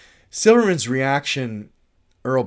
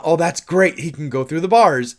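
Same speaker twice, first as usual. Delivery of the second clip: mock excitement; 3 semitones higher, 5 dB louder than usual. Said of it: "not even thinking about".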